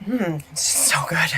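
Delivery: hushed whisper. Real, not acted. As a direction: whisper it under the clip. Clip playing, whispered aside.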